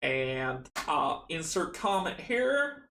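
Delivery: put-on playful try at the Arkham Horror accent. Signing off the stream, trying the Arkham Horror accent. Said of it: "in the accent from, from Arkham Horror".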